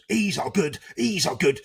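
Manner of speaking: high, jokey mock lyric; messing with the line in rehearsal; mucking about. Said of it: "I'm mucking about".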